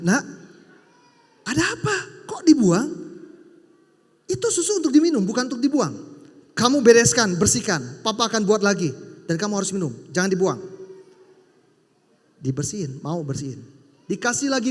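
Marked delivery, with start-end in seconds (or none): 0.1-10.6 raised, firm scolding father's voice; stern father. Retold or imitated. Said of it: "Papanya bilang gini". (ayah menegur anaknya dengan suara tinggi dan tegas)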